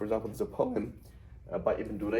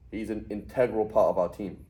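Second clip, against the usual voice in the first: INTEGRAL stressed on TEG, punched louder; louder in-TEG-ral, as an adjective; shifted emphasis; 5 dB louder than usual. Shown as a demonstration. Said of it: "You change the emphasis".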